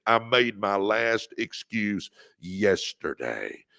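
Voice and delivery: slow, deliberate vow, every word weighed; slow it down and mean each word; like you mean it. Shown as a demonstration. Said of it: "say it like you mean it".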